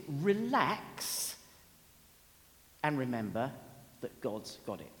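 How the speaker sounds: calm reassurance. Real, not acted. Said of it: "I can sum it up in this".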